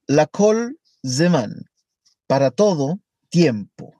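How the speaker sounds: "La kol zeman" slowly, then a pause before "para todo tiempo"; slow, paused reading. Shown as a demonstration.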